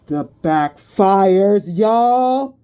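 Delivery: words stretched out by giggles; trying to talk through the giggles; laughing through words. Real, not acted. Tarot reader losing it over the cards, laughing.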